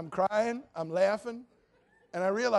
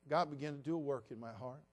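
ordinary talk, nothing marked

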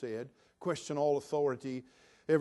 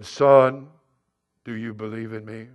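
voice of God; 5 semitones lower, 11 dB louder than usual. Acted. Voice from heaven answers.

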